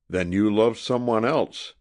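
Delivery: loud, savage outburst; savage cry. A narrator's reading. Jilted suitor to Sadie, savage jealous cry. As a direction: spit it out in jealous rage. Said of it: "he cried savagely".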